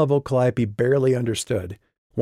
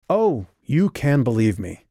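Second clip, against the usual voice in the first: bitten-off words; 3 semitones higher, 3 dB louder than usual. Acted. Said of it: "Calliope bit off her words".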